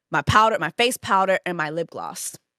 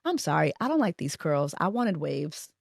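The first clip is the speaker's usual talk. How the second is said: soft but firm, a little lower; quiet firm complaint; 4 semitones lower, 6 dB quieter than usual. Retold or imitated. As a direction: say it low and polite, yet unbending. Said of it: "I'm just like".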